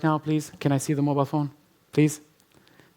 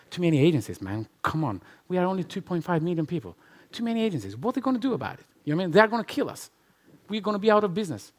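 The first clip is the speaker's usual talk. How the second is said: imitating his own upset rant, pitch climbing higher; hammed-up complaint to his mentor, higher and agitated; venting to a mentor about too many agencies, mock exasperated; retold frustration; 5 semitones higher, faster than usual. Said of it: "I said, "Graham, I'm very pissed off".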